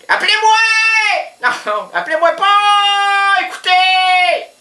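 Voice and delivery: hammed-up plea to be called; mock outcry. Comic outburst at the audience.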